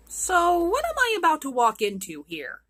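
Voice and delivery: put-on a girl steeling herself before danger; lightly anxious young girl; nervous Gerda.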